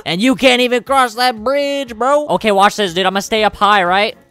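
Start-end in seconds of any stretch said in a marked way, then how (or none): 0.1-2.3 laughing taunt. Real, not acted.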